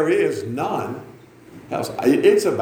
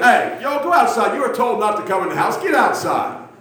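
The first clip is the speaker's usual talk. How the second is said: high, mildly raised scolding yell; retold yelling at kids; 8 semitones higher than usual. Preacher reenacting himself sending kids outside, high scolding yell. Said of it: "I'm gonna yell at you".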